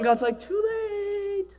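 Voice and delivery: high, cold dismissal; high mock cruel verdict; cold God. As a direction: slam the door on them.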